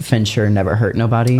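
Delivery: ordinary talk, nothing marked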